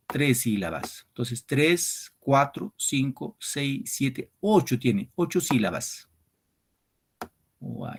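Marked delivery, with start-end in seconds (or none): 1.4-6.1 slow syllable counting. Shown as a demonstration. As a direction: count each syllable out slowly for the class. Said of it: "counting syllables".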